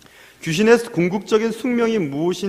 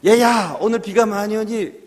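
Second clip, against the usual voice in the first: raised, higher imitation of a parent; parent calling to a child; 5 semitones higher, 3 dB louder than usual. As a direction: call out a warning as a parent would. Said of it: "여러분의 어머니나 여러분의 아버님에게". (아이를 불러 말리는 부모 흉내)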